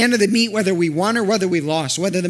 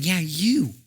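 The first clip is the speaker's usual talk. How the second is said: softer, intimate call; tender invitation; 2 semitones higher, 3 dB quieter than usual. Acted. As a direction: gently invite him despite his flaws. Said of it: "looking very personally at Peter".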